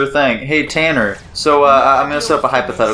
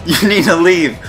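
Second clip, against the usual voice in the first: half-hearted yelled warning, raised pitch; mock urgent scream; 4 semitones higher than usual. A doppelganger warning Tanner to flee, mock yell. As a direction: warn them urgently without fully shouting. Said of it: "and he screamed at you".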